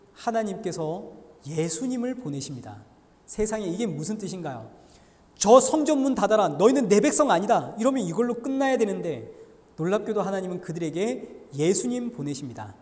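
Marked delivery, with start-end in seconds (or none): 5.4-7.7 stern divine rebuke. Acted. God's angry word in sermon.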